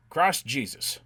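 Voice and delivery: loud, high cry of shock; shocked exclamation. A narrator's reading. Shocked at the sudden raid.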